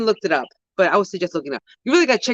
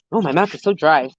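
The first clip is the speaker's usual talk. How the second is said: usual speaking voice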